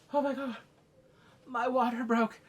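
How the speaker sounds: high, put-on alarm; mock shock. Imitating a queen whose water breaks, high alarm. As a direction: voice jumps up in pretend panic. Acting shocked woman going into labor.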